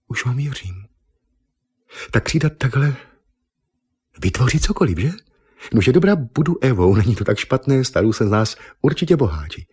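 put-on gushing young woman sensing wealth; eager Miss Nippon.

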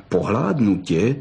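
slow, lightly growled threat; a hint of a fox's growl, drawn out; the vixen growling at the boy. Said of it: "zavrčela bystrouška".

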